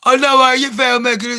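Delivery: mock whiny, needy prince; Prince Harry. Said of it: "he's like".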